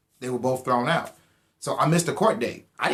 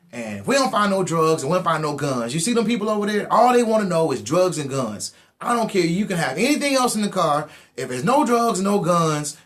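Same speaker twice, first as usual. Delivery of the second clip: a touch higher, firmer cop offering a deal; bad cop deal; 5 semitones higher, 3 dB louder than usual. Bad cop offering a deal, firm and a bit loud. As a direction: lean in and bargain like a tough cop. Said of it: "the bad cop comes back".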